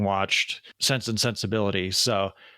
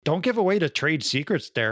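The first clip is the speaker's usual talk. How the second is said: playful, badly faked British accent; mock British accent; 3 semitones higher than usual. Host teasing co-host for spilling secrets, mock British accent. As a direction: scold lightly in a fake British accent. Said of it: "two guys with accents just like ours".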